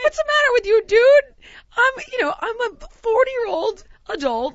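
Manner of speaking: loud, high-pitched mock confrontation; re-enacted indignant protest, easing off toward the end; indignant outburst. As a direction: challenge him in high, outraged disbelief. Acted quarrel with the doctor.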